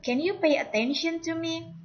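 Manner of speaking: "Can you pay attention to me?" pitched well up to the end. Shown as a demonstration. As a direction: keep "attention to me?" high. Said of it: "Jadi nadanya agak naik di sini".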